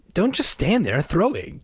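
high, impatient brotherly prod; eager, insistent call; urging. A narrator's reading. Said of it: "Casey urged".

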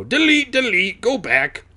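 high, loud, odd sing-song delete; mock correction. Real, not acted. Narrator fixing a typo, high playful chant. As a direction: chant it like typing it away. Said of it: "Maybe he had a typo".

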